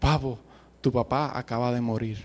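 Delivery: put-on gentle, sweet tone. Retelling how an aunt spoke on a phone call, imitating a soft, sweet voice. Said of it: "bien suavecito, bien dulce".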